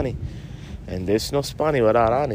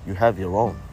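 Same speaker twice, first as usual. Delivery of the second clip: laid-back stoner buddy; 3 dB quieter than usual. Acted. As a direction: play the mellow stoner pal who ends every line with man. Buddy character asks for a smoke.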